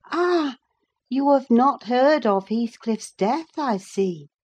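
a hint of the housekeeper explaining; lightly voiced housekeeper. A narrator's reading. Housekeeper explaining to Lockwood about the rent, lightly voiced.

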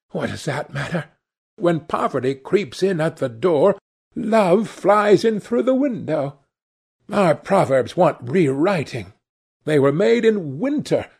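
put-on dreamy, excited young woman in love; rapturous young actress. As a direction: swoon over Prince Charming. Sibyl keeps musing happily.

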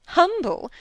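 astonished query; incredulous echo. Acted. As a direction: pounce on the word in disbelief. Echoes the word in disbelief.

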